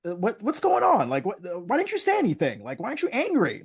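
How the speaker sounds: high, bewildered what-what-what; incredulous what. Retold or imitated. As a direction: pile on the disbelief, pitch way up. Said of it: "Rachel and Mama Winslow are just like".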